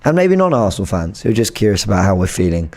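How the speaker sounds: lost voice, hoarse and strained. Real, not acted. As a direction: talk through a hoarse, worn throat. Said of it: "I've lost my voice".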